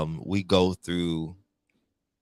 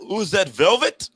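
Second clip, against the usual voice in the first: higher, louder, slow quote; movie quote; 10 semitones higher, 10 dB louder, slower than usual. Retold or imitated. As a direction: stretch it out like the character. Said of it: "From Come to America".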